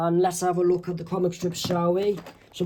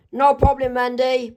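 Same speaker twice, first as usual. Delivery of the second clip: cheerful reply; 7 semitones higher than usual. Acted. Character answers cheerfully.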